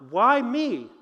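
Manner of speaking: earnest "Why me?", truly asking; sincere question. Retold or imitated. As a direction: ask "Why me?" as a real question to God. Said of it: "really genuinely asking God".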